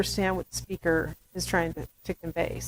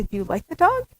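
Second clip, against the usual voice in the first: put-on baby talk. Shown as a demonstration. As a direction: coo over the dog to the baby. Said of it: "I'd say".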